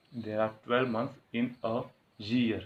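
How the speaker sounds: very slow and soft, word by word; slow dictation. Shown as a demonstration. Teacher reading the corrected sentence to students, very slow and soft. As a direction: spell it out slowly for the class. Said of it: "dictating the corrected sentence".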